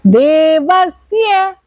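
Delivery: देवस्य with a clear dental स as in सड़क, slow. Shown as a demonstration. Teacher correcting देवस्य to dental स. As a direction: say देवस्य with स, not श. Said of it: "सड़क वाला".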